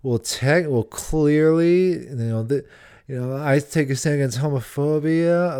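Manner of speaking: lightly voiced patronizing uptalker; condescending uptalk. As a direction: drag it out like a smug know-it-all. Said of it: "Like the up talking".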